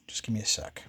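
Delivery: whispered aside to himself; whispering. Real, not acted. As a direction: breathe it out under your breath. Aside while fetching something.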